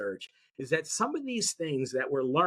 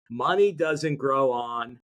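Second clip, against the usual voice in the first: slow, leaving the last word hanging for the listener; teacher's slow cue with the end left open; fill-in-the-blank prompt; 3 semitones lower, slower than usual. Shown as a demonstration. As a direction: draw it out and stop short so they finish it. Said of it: "See if you can finish the sentence".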